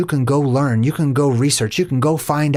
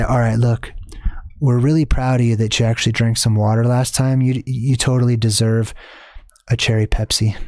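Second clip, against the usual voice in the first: lower, lightly voiced coaxing parasite; sly parasite voice; 4 semitones lower than usual. Parasite bargaining with you for soda, lightly voiced and lower. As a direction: sweet-talk them into a treat. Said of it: "They're gonna say".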